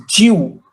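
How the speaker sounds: "Jew" stretched as ji-yoo, falling; drawn-out J Y. Shown as a demonstration. Teacher elaborating the J Y for learners, stretched "Jew" as ji-yoo. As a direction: draw out the Y glide in "Jew". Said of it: "have to elaborate J Y".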